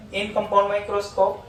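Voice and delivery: measured classroom dictation; slow dictation. Acted. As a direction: dictate each word slowly to the class. Teacher dictating notes slowly.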